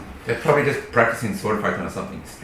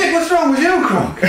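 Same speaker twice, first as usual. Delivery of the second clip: high, loud laughing yell; outraged shout; 9 dB louder, slower than usual. Acted. Character scolds sparring companion.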